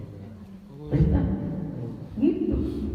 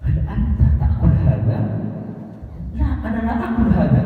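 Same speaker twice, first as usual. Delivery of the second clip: animated Arab-style dialogue, higher and livelier; Arabic with Arab feeling; 3 semitones higher than usual. Shown as a demonstration. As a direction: act out a lively Arab exchange with a laugh. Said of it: "pakai feeling orang Arab". (percakapan Arab yang hidup dan ekspresif)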